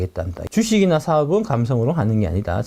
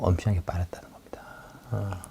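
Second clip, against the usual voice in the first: whispered aside; 10 semitones lower, 11 dB quieter than usual. Real, not acted. Snide aside.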